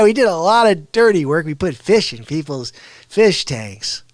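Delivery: rough sketch of Artie; Artie Lange. Retold or imitated. Comedian sketching Artie Lange, loud and rough. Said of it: "I gotta work on Artie".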